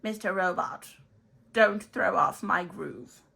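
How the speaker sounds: cackling sorcerer casting a spell, very high and loud; wizard voice. Acted. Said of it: "Mister Wizard?".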